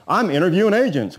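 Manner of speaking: lightly voiced seller, a bit up and firm; a hint of a guarded home seller; seller's voice. Realtor quoting the seller's line again to the class, mildly mocking. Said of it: "he talks like this".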